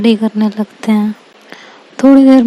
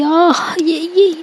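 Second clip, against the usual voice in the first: mock pained cry; 7 semitones higher, much slower than usual. A narrator's reading. Girl whose foot got hit in class, mock cry of pain. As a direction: let out a restrained, high-pitched "aah". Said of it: "एकदम से चिल्ला पड़ती".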